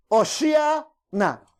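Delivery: very slow, drawn-out "Oshiana"; Hebrew cry. Shown as a demonstration. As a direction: stretch "Oshiana" long and even. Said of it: "¿Cómo le gritaban?".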